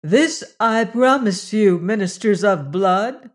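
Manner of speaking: a lightly voiced goddess warning her priests; stern threat.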